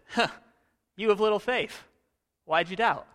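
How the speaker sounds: light jab between friends, "you of little faith" said with a grin; playful teasing. Shown as a demonstration. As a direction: rib him like a buddy. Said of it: "What if it's".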